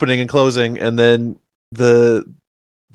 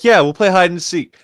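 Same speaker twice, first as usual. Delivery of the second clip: sarcastic; 5 semitones higher than usual. Retold or imitated. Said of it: "she said it sarcastically".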